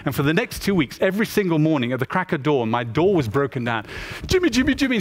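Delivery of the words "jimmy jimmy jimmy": high-pitched, urgent name-calling; imitated excited summons, pitched well up; eager calling out. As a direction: call out insistently, as if rousing someone at dawn. Villagers calling him at dawn.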